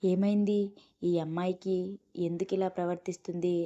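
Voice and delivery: alarmed, asking himself what is wrong; worried. Acted. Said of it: "కంగారు పడిపోతూనే".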